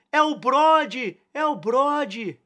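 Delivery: high, loud, drawn-out yell; crowd shouting. A narrator's reading. A dozen voices recognising Brody in the bar, shouting. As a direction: cry it out slowly like an excited mob. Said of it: "uma dúzia de vozes gritou".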